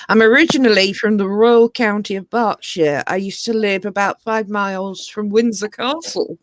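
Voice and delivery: posh Southern English, stately and measured; lightly posh English voice; posh English accent. Real, not acted. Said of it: "That was very posh".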